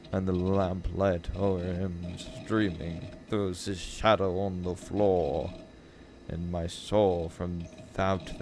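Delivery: slow, drawn-out gothic reading; sombre poem recital. Acted. Reader ending The Raven in despair, slow and sombre.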